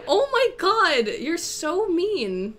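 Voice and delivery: high, slow giggly scolding; laughing. Real, not acted. Laughing at a rude joke.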